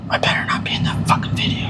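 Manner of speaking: whispered menacing line; whispered threat. Retold or imitated. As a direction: hiss the threat in a whisper, unvoiced. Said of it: "But he, like, whispered it".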